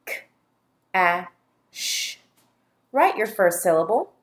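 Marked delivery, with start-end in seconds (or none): 0.1-2.2 "K-a-sh" as three isolated sounds; lone k, short a, long hushing sh in "K-a-sh"; sounded out. Shown as a demonstration. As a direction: tap out "K-a-sh" with gaps between sounds.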